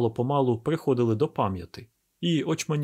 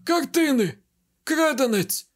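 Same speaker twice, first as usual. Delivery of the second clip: much higher, loud shocked outcry; cry out; 13 semitones higher, 5 dB louder, slower than usual. Acted. Baron discovers the stolen paintings, shrill outcry. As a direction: yelp in horror at the bare walls. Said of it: "барон скрикнув".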